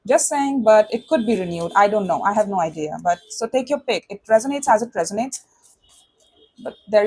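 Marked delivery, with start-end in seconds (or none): none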